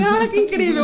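high, loud mock wonder; sarcastic. Mom answering son's bubble bath with sarcasm. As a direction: fake delight, dripping irony.

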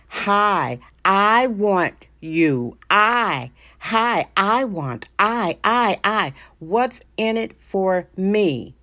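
hammed-up stammering, drawn-out demand; a stranger demanding a favour without using her name, mock stammer; mocking a rude stranger asking a favour. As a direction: play a tongue-tied rude stranger who only wants something, slowed and halting. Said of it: "and you just say".

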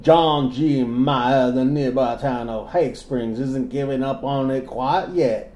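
lightly classy southern read; genteel Southern narrator; southern accent. Pretend. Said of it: "my southern voice".

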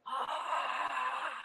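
a low ghostly moan, softly voiced; mimicking a spirit's moan, hushed; imitated deep moan. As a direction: breathe out a spooky moan. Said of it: "real deep like that".

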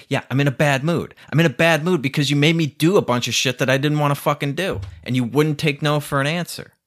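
firm, rising anger at her; angry reply. Real, not acted. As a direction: tell her off. Angry answer to her question.

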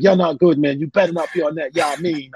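imitating Mike. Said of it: "He was like".

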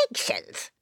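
very low creature voice; low baffled creature; tiny critter. Acted. Creature repeats.

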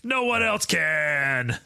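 slow announcer read; drawn-out radio host line. Pretend. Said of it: "Is that your radio voice?".

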